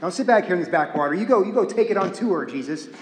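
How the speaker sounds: mildly mocking, teasing a big shot; a touch of scornful sibling sarcasm; mock sarcastic brothers. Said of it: "They're being sarcastic".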